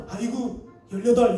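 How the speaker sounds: mild cry, then a loud swear word; hammed-up muttered-to-loud curse; mock cursing. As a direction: pretend to curse after stubbing your foot. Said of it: "이렇게 욕하는 게 아니라".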